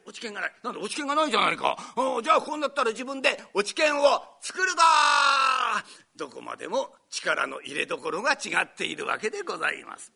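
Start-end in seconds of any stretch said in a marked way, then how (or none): 1.9-5.8 high, loud determined cry; fired-up shout. Retold or imitated. Student declares he'll found his own club, shouting. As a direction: shout your resolve.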